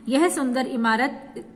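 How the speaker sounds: यह सुंदर इमारत as one group, then a brief pause; pause after इमारत. Shown as a demonstration. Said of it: "बोलने के बाद जरा देर के लिए रुकते हैं". (इमारत के बाद विराम)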